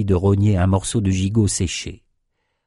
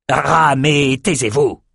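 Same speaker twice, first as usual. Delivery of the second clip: mild roar; 5 semitones higher, slower than usual. Acted. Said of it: "rugit Outros".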